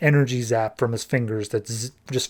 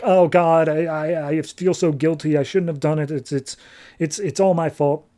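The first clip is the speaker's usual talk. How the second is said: mildly voiced guilty fretting; upset and guilty; 2 semitones higher than usual. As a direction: stammer through a retold, upset confession. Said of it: "Thirteen is super upset".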